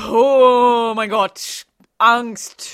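slow, loud, high wail of fear; hammed-up panic; terrified cry. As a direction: cry out in mock terror. Harry terrified at Voldemort.

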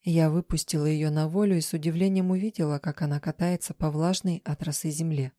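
ordinary delivery, nothing marked

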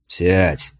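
put-on a drunk commander grumbling sit; grumbled. A narrator's reading. Drunk commander grumbling at his guest to sit. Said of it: "проворчал Гронер".

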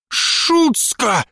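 put-on old woman's high shout; shouted insult. A narrator's reading. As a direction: spit the curse at her. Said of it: "выкрикнула потом она".

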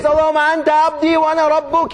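mock overjoyed blurt. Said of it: "He says".

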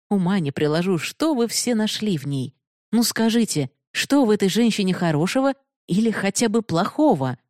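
Binodini's voice. Acted. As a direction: speak as the proud, challenging heroine. Binodini reproaches Bihari. (слегка повышенный голос героини)

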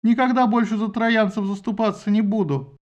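high, slow whiny plea; whimpering. Acted. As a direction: whine and give up. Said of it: "захныкал скамандр".

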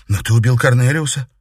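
laying the blame on him flatly; cold accusation. A narrator's reading. Katerina to her father, coldly accusing. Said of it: "холодно заметила Катерина".

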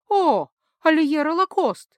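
loud, slow, thrilled cry of the name; excited exclamation. A narrator's reading. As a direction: gush the name out in delight. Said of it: "единодушием воскликнули магички".

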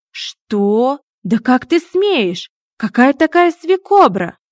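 loud, high, furious outburst; outraged. Acted. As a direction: shout at him in disbelief, building. Furious at the cat's insult. (гневно, громко и высоко)

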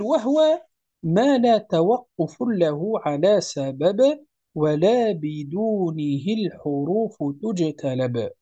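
verse recitation. Acted. Chants the verse slowly.

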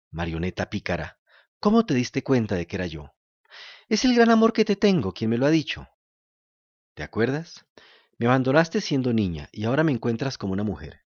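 lightly voiced gentle fairy. The fairy tenderly tells Pinocho she grew up, lightly voiced.

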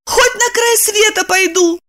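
high woman's vow; desperate vow. A narrator's reading. Lipochka vowing to follow Roman anywhere. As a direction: swear it with desperate resolve.

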